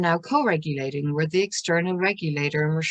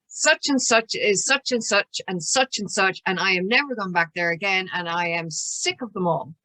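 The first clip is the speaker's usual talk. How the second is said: put-on upset teenager; 2 semitones higher than usual. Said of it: "comes out of school and says".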